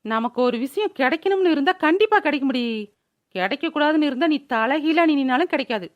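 mock-heroic speechifying; heroic declamation. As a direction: deliver it as a grand maxim. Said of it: "திடீர்னு வீரவசனம் பேசுற". (வீரவசனத் தொனி)

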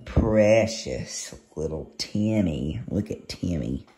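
cooing. Real, not acted. Cooing over kitten.

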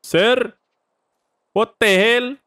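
sudden high, loud startled cry; startled yelp. Real, not acted. Gamer startled by a figure suddenly appearing, high startled yelp. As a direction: jump and yell at the shock.

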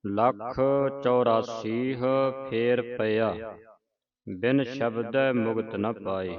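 ਲੱਖ, ਚੁਰਾਸੀਹ and ਫੇਰ ਪਿਆ read as separate, paused chunks; model recitation. Shown as a demonstration. Teacher models the line for the student, word by word with pauses. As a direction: recite ਲੱਖ ਚੁਰਾਸੀਹ with clear pauses and a full "chu-raa-seeh". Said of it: "ਇਸ ਤਰ੍ਹਾਂ ਉਚਾਰਨ ਕਰਨਾ".

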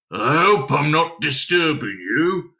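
slow, put-on furry creature; hairy creature voice. A narrator's reading. Hairy lodger fussing over sleepy Dunstan, slow creature voice. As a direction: apologise as a small hairy stranger. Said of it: "which certainly sounded rather hairy".

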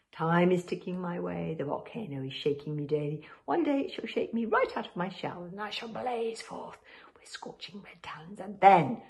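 slow, hushed dragon voice growing into a whisper; ominous dragon voice. Acted. The dragon's menacing prophecy.

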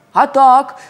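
громко завопи «А так!»; азартный вопль зайца. A narrator's reading. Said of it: "завопил заяц". (заяц вопит в игре)

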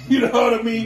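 loud laughing question; laughing through the words. Real, not acted. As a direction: laugh it out to his friend. Laughing with friend.

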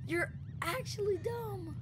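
slow, high, soft fake whine; a hammed-up weepy whine; mock crying. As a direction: whimper it like mock sobbing. Third take, crying tone.

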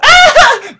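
loud high burst of laughter; shrieking laugh. Real, not acted. Huge laugh.

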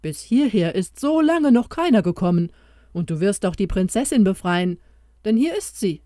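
lightly voiced mouse bringing good news; a hint of an eager small creature; little mouse voice. Mouse voice held.

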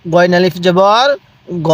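spelling chant rising on "জবর", then "গ" held level; name the letters, then stretch "গ"; measured recitation with a long "গ"; drawn-out vowel. Shown as a demonstration. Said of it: "উচ্চারণ কিভাবে পড়বেন".

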